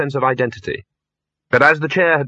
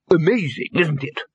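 higher, pleased exclamation; happy; 5 semitones higher than usual. A narrator's reading. Lecturer delighted with his disguise, happy. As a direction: marvel happily at your own idea. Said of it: "said the lecturer happily".

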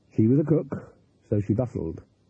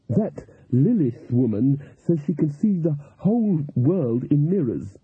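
slow, mildly accusing character voice; slightly accusing; 3 semitones higher, slower than usual. A narrator's reading. Cook challenging the voodoo woman about Lilith, slightly accusing. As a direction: say it slowly, with a touch of accusation. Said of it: "in slightly accusing tones".

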